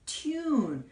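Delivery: "tune" with a clear "유" glide inside; demonstrated pronunciation. Shown as a demonstration. Teacher models the yu sound in tune, careful pronunciation. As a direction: stretch "tune" as t-yoon, pitch falling. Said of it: "유 하는 것처럼 tune 하고 발음을".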